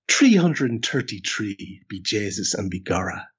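hammed-up stage-Irish accent; stereotypical Irish accent. Shown as a demonstration. Host imitating a typical Irish person saying the number, stereotypical Irish accent. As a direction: do a typical mock-Irish impression. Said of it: "do a typical impression of an Irish person".

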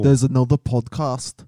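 put-on unsure Scottish accent drifting toward Irish; wobbly Scottish accent. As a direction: have a rough go at Scottish. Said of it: "kinda turned Scottish".

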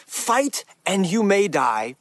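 slow, rallying Scottish battle speech; amateur Scottish accent, addressing the men. Acted. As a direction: do your best Scottish warrior, drawn out. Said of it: "I'm doing my best at my Scottish accent".

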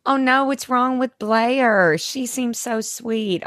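mom quote. Retold or imitated. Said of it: "my mom was like".

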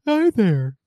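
put-on American accent. Host repeats greeting to amuse co-host, in a mock American accent. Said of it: "what's my American accent?".

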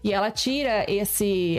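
ordinary talk, nothing marked

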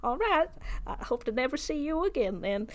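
quick, jaunty goodbye; breezy farewell. Acted. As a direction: toss it off cheerfully. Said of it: "he's like".

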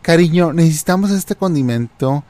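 pregunta juguetona, más aguda; marido sonriente imitado. Retold or imitated. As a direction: imita al marido preguntando con falsa inocencia. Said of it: "empieza a sonreír y dice". (voz sonriente y aguda de marido cómplice)

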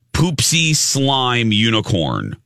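drawn-out toy name, slow; slow announcement. Acted.

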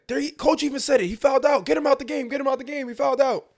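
high-pitched, insistent rival coach; retold indignant protest. Other team's coach demanding he be taken out, mock indignant. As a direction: mimic a coach pleading the case to refs.

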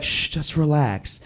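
a soft mock-soothing "shh, just relax"; soothing hush. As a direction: hush him like calming a nervous man. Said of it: "And she was like".

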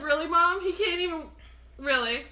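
put-on complaining kid. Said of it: "I'd be like".

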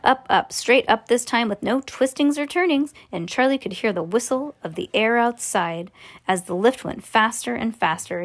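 plain reading voice

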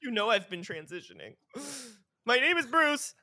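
high pretend mother-in-law voice, rising to a loud declaration; gasp, then announce the name in a high mock-dramatic voice; hammed-up reveal. Mother-in-law revealing a transition to Bruce, hammed-up.

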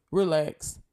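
gentle reassuring relax; soothing relax again. Real, not acted. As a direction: ease yourself down too. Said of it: "I'm saying it to myself too".

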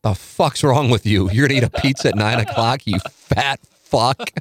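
mock scolding. Mocking late pizza orderers.

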